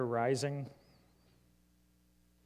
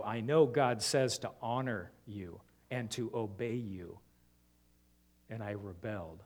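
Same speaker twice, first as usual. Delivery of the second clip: put-on sincere child confession; 3 semitones lower than usual.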